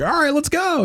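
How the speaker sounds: high-pitched, eager go-ahead; retold rallying cry. Speaker answering the masked man following him, retold rallying cry. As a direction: re-enact a keen rallying reply, pitched right up. Acts his own rallying reply.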